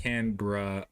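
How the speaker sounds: Canberra in two syllables, CAN-brah; own pronunciation. Shown as a demonstration. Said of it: "I say it like".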